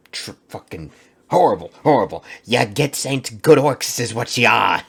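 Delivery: a failed Cockney orc growl; Cockney accent. Pretend. Reacting to orc lore in a failed Cockney accent. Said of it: "I can't do a good Cockney accent".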